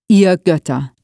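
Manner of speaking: a read-aloud shout, moderately loud; shouting at the gods. A narrator's reading. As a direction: cry out to the storm gods. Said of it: "schrie er".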